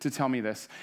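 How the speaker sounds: insulted that the prophet won't come out himself; a proud commander complaining about the servant, affronted; offended pride. Retold or imitated. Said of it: "And, and what, like".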